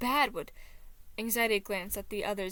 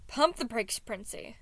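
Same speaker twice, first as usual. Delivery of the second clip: shouted; 2 semitones higher, 4 dB louder than usual. Acted. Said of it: "Thomas shouted".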